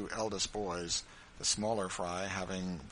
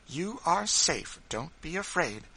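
slow, high, emphatic reassurance; encouraging; 9 semitones higher, 5 dB louder, slower than usual. A narrator's reading. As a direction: reassure her deliberately, voice lifted. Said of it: "said Missus Bird encouragingly".

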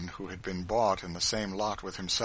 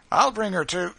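loud, raised cruel driver's voice; brutal grin; 11 semitones higher, 10 dB louder than usual. A narrator's reading. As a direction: gloat loudly like a bully. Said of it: "said the driver with a brutal grin".

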